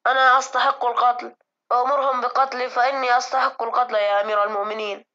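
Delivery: loud, anguished pleading, on the edge of tears; sobbing. A narrator's reading. Servant confesses guilt to the caliph, sobbing loudly. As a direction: beg forgiveness in a sobbing cry. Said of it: "ينشج غصين باكيا".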